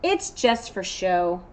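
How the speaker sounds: a gloomy unicorn voice; glum unicorn. Acted. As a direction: shrug it off like it's nothing. Unicorn shrugs off his horn.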